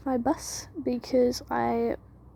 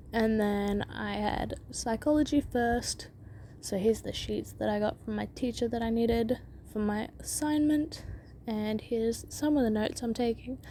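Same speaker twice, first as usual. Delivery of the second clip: retainer lisp; soft lisp, retainer in mouth; wearing a retainer; 4 dB quieter than usual. Real, not acted. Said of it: "I just have my retainer in".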